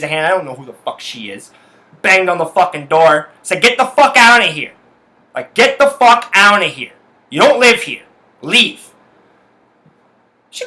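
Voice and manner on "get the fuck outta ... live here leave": raised, forceful mock yell; retold yelling. Telling the roommate's girl to get out, a raised retold yell. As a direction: shout her out the door again. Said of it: "I fucking yelled at her again".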